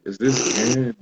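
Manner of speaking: put-on joking touch of an Indian accent; hinted Indian accent. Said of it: "I'm not gonna do his accent".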